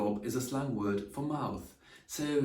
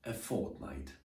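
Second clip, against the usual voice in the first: 1 soft model for repeating; 2 semitones lower, 6 dB quieter than usual. Shown as a demonstration. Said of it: "Say after me".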